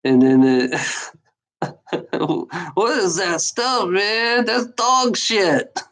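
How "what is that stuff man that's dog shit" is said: higher, slow stoner drawl quoting the movie; lightly voiced stoned Chong; Cheech and Chong. Retelling Cheech and Chong first meeting, stoned drawl. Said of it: "when Cheech and Chong first met".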